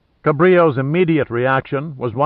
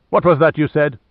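sharp, higher, louder demand; 4 semitones higher, 4 dB louder than usual. Acted. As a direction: challenge him, affronted. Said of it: "demanded the lieutenant".

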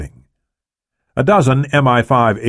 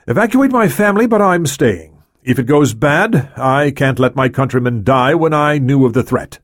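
defiant Prime Minister; 5 semitones higher than usual. Acted. Prime Minister refuses evacuation.

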